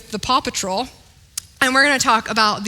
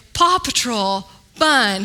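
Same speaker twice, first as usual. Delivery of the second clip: put-on toddler voice; slower than usual. Toddler repeating all the way home.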